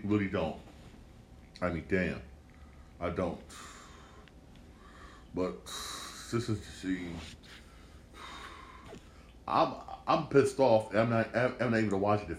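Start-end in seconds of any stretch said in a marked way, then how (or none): 5.3-7.1 breathy whispered trail-off. Real, not acted. Deflated after rant.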